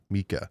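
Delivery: "Mika" as spelt M-E-E-K-A-H, no N; MEEKAH pronunciation. Shown as a demonstration. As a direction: say "Mika" with a long EE straight into K. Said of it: "That's how I would say M E E K A H".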